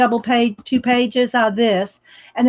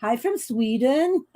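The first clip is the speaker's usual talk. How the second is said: put-on Swedish accent as heard on TV, a bit softer; mock Swedish accent; 5 dB quieter than usual. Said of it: "somebody say it like that on T V".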